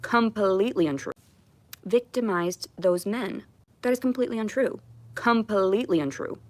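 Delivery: heated denial. Real, not acted. Streamer denying she victimized those men, heated and insistent. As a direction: push back hard on the rumour.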